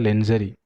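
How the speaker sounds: lingerie as "len-juh-ree"; another common mispronunciation. Retold or imitated. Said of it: "कोई पढ़ता है".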